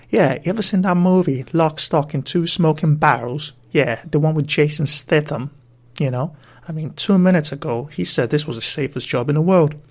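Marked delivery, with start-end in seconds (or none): 0.1-8.3 louder Cockney gangster quoting a film; Guy Ritchie hardman in a Cockney accent, with open throat. Acted. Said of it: "let me try something".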